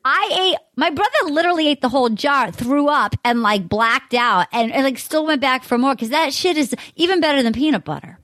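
hammed-up Boston accent. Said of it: "Can I do a Massachusetts accent".

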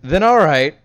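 consenting partner. Acted. Acted partner gives in.

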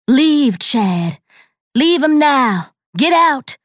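loud, high commanding yell; demanding shout. A narrator's reading. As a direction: order the demon out at full force. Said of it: "she demanded".

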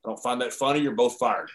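lightly imitated boss, low and quiet; Vince. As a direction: deliver the boss's rebuke softly and low. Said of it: "he comes on and he goes".

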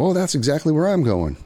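high, cheery fake-friendly voice; charming stranger. Stranger claims the same floor, high and cheery.

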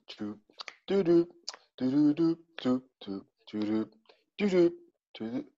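humming elevator music; hold music hum. Pretend. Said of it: "je vais mettre une petite musique d'ascenseur".

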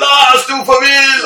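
put-on party guests cheering at a fallen drunk; crowd cheering. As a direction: whoop it at your mate.

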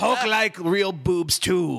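slow Hulk toy catchphrase; pull string toy. Pretend. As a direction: drag it out like a talking toy. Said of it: "the catchphrases when you pull the string on his toy".

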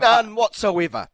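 slow, high hammed-up denial; mock denial. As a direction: drag out the denial playfully.

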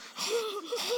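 high, sharp intake of breath; sharp gasp. Retold or imitated. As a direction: gasp from the cold. Imitating a gasp of cold.

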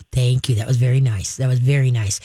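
low, calm thank you; calm praise. Shown as a demonstration. Trainer modelling calm praise for the dog. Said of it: "Be calm and collected".

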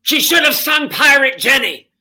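high, loud, indignant diva verdict; impression of a Broadway diva. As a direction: declare it like a legend who knows better. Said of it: "and she said".

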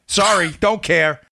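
ordinary talk

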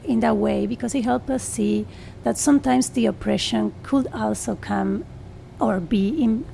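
Spanish-accented English; English with a strong Argentine Spanish accent; Spanglish. Real, not acted. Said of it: "sorry for my Spanglish".

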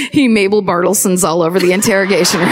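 rushed, laughing through the punchline. Real, not acted. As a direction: blurt it out while cracking up.

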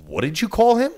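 a loud, high call across the ring; loud question. Retold or imitated. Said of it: "said out loud".

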